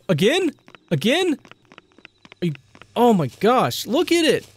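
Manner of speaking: high, startled disbelief; panicking. Real, not acted. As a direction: freak out in a high voice at another spider. Second spider lands on player's face.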